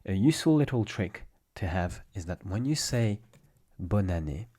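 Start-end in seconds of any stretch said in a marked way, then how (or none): 3.8-4.5 bonne année linked as bo-na-né; as one word. Shown as a demonstration. Teacher giving learners a useful trick, linked words. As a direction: flow straight from bonne into année. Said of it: "as if it was just one word".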